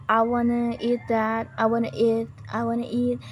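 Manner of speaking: "wanna" merged into WAH-nuh; reduced American form. Shown as a demonstration. Teacher demonstrates common American speech, reduced "wanna". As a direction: run want and to together as "wanna". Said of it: "gonna and wanna instead of going to".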